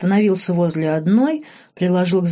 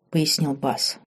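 ordinary delivery

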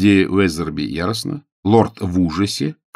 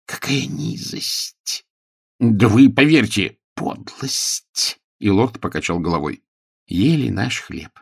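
hushed, slow, disgusted words; 2 semitones higher than usual. A narrator's reading. Lord shames Pickering in hushed disgust, slowly. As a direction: murmur your contempt.

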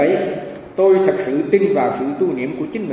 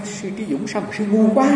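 thiền sư chê; 5 semitones higher than usual. Retold or imitated. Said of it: "Ông nói".

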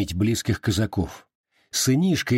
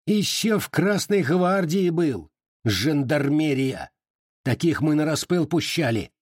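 stinging jab; 6 semitones higher than usual. A narrator's reading. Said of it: "кольнул".

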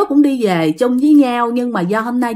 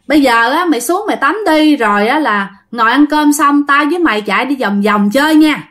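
mildly raised voice, as if to a roommate out of earshot; 3 semitones higher than usual. Retold or imitated. Speaking up to roommate Tâm upstairs, raised voice. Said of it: "bạn đã nói lớn hơn mới nãy".

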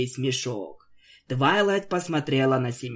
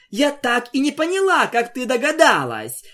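snorting; 9 semitones higher, 5 dB louder than usual. A narrator's reading. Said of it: "фыркая спросила волшебница".

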